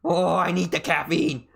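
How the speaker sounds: lightly voiced pleading brain; craving brain voice. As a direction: moan it like a brain desperate for caffeine. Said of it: "my brain was going like".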